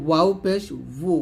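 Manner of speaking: উ as wu from rounded lips, not bu; rounded-lip waw. Shown as a demonstration. Teacher correcting learners on waw pesh, rounded-lip উ. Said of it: "আবার বুও হবে না".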